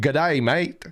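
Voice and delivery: light imitation of a film's bad Australian; mock Australian accent. Quoting a comedy film clip, mock Australian accent. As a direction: put on a hint of Australian accent. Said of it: "the clip of him saying".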